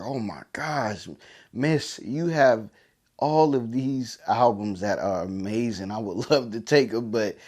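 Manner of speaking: slow, awestruck gasp over the records; amazed. Retold or imitated. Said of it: "He just was amazed by it".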